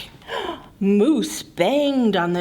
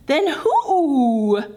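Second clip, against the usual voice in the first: mild bellow. Acted. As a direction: bellow the question. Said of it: "bellowed Moose".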